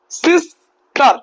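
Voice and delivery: সিস্টার drawn out slowly in two beats; slow syllables. Shown as a demonstration. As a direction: stretch the word to show its parts. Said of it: "দুইটা syllable". (ধীরে টেনে দুই ভাগে)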